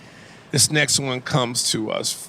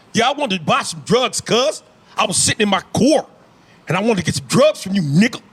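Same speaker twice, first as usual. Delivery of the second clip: higher-pitched LA gangbanger drawing out vowels; put-on California gang accent, voice pitched up; LA gang member accent; 4 semitones higher than usual. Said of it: "The L A dude?".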